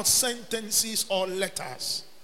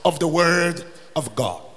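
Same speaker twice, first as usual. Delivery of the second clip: raised, ringing preacher's delivery; emphatic preaching; 3 semitones higher, 8 dB louder than usual. Real, not acted. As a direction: preach it out, leaning hard on key words. Preaches with rising force.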